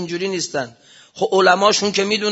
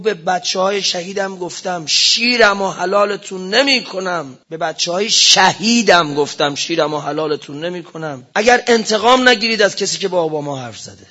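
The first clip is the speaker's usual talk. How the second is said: raised, pleading voice of a martyr's mother; grieving mother's outburst; 4 dB louder than usual. Retold or imitated. A martyr's mother reproaching the cleric, raised angry plea. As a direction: cry out your sons' sacrifice in anger.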